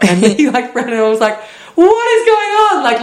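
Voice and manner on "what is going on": high, loud, baffled exclamation; bewildered. Retold or imitated. Reacting to a stranger pulling his friend over, bewildered. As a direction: throw it out in disbelief. Stunned as guy runs off.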